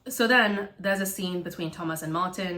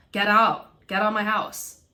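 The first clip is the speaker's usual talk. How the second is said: angry; 3 semitones higher, 6 dB louder than usual. Retold or imitated. Martin throwing Thomas out.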